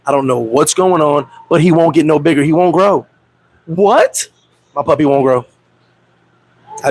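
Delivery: low, mopey put-on sadness; fake sad excuse. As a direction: sell the sob story lightly. Fake sad phone excuse, lower.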